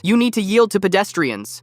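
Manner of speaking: slow, high angry outburst; a stranger losing it at a family on bikes; lost it. Retold or imitated. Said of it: "That's when he lost it".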